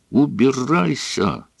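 mild mock shout, drawn out; a touch of a son's yell. A narrator's reading. Son shouts at his father, understated. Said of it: "закричал он".

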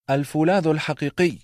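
"الفولاذ الحقيقي" pitched high and proud, stressing الفولاذ; haughty prince. A narrator's reading. The prince demands "الفولاذ الحقيقي" high and haughty. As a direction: demand it with arrogance.

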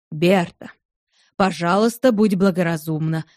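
low, gentle coaxing of his wife; a husband calmly talking her round; мягко уговаривая, чуть ниже обычного; persuading. Acted. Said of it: "попытался убедить жену Кредок".

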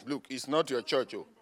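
soft, low scolding; mock old-timers. Old members warn the newcomer in a low soft voice. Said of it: "older members voiced".

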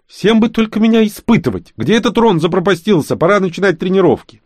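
loud, high indignant grumble; grumbling. Acted. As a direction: complain loudly to the air. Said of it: "проворчал". (громкое ворчание)

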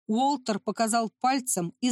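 ordinary delivery

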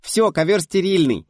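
high loud call of mum; child shouting for mum across the flat; frantic cry. A narrator's reading. Daughter calling excitedly to her mother.

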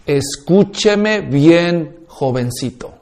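slow, low and soft warning to his son; father warning his son, slow and stern. Acted. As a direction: lay down the law quietly and slowly. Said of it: "el padre hablando al hijo le dice".

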